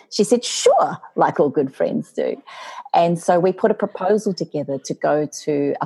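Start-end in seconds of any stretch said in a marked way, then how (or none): 0.4-1.0 very high, airy little yes; ready agreement. Retold or imitated. Friend agreeing to write a book, high ready agreement. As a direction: imitate an easygoing friend, pitched way up.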